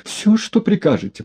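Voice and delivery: high, hasty assent; hasty agreement. A narrator's reading. Одутловатый поспешно соглашается с Егоровым. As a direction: agree quickly, eager to please. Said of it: "поспешно согласился одутловатый".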